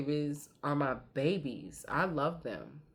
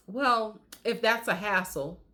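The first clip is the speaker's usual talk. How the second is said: put-on higher, politely hedging child; polite little girl; 5 semitones higher than usual. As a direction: echo the child's polite manners. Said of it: "That's how she talks to us".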